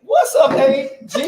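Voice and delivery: loud, high welcome; excited greeting. Real, not acted. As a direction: greet him with a big grin. Host greets arriving guest loudly.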